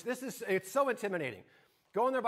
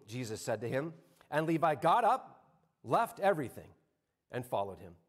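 scripture reading; 3 semitones lower than usual. Acted. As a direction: read the Gospel aloud to the congregation. Reads scripture passage.

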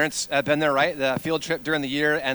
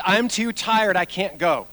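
mock child whine; 2 semitones higher, slower than usual. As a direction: imitate a kid refusing to budge. Child refusing, whining in retold story.

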